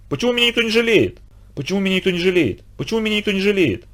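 высоко и жалобно, хнычет; скулит, как обиженный ребёнок; жалобный скулёж. A narrator's reading. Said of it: "повторял он и вдруг с жалобным воплем". (брошенный бандит жалобно скулит, высоким голосом)

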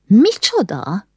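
stunned disbelief at her daughter; shocked. Acted. Mother hearing the news, slowly shocked.

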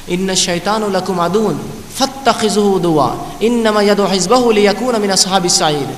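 slow, measured Arabic chant; تلاوت کا انداز; Quran recitation. Acted. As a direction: recite the verse with reverent care.

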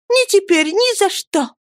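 put-on young lady asking about the wounded boy, gently; gentle young lady. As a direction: ask kindly in a girl's voice. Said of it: "ответила молодая девушка".

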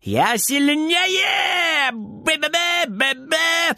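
very high, slow gloating cry; gloating on the highest note. A narrator's reading. Boy gloats over granny on his highest note. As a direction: crow in triumph at the top of your voice. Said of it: "ликует он на самой высокой ноте".

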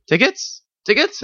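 very high rising call; sing-song ticket call. Retold or imitated. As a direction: call like a conductor. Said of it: "looks me in the eye and goes".

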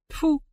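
high sharp disgusted «тьфу»; a vexed pfui; annoyed spit. A narrator's reading. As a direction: spit the sound out in frustration. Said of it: "с досады чуть не сплюнул".

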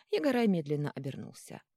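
usual speaking voice

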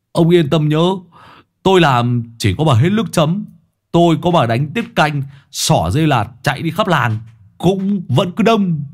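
put-on old man bragging about the duck feast; boastful old man. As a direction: brag about the feast to bait him.

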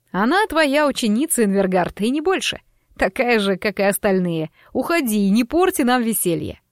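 lightly voiced mocking host; sneering showman, a touch sinister; horror host. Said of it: "явно поддерживая ведущего".

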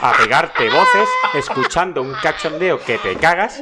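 retold indignant guest's complaint; a bit pissed off. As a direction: complain to the receptionist, raising the voice. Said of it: "hablando un poco cabreado".

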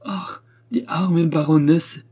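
slow, high show of sympathy; dutiful, feigned commiseration; put-on pity. A narrator's reading. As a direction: drag out the pity as if on order. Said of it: "avec une pitié de commande".

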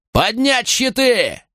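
high, slow shouted command; shouted warning. Acted. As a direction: bark the warning to raise shields. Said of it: "выкрикнуть предупреждение". (выкрикнутое предупреждение)

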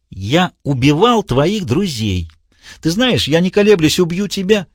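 slow, high, threatening madman; menacing villain. A narrator's reading. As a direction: promise a killing. Diogenes voiced high.

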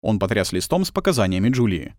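ordinary delivery, nothing marked

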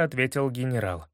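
usual speaking voice

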